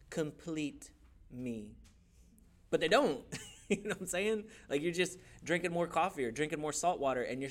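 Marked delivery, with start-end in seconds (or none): 0.1-1.8 drawn-out, softer mock swoon; mock romantic. Mocking a popular romantic phrase, slow and soft. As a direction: stretch it out like a cheesy love line. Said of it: "People love to say this phrase".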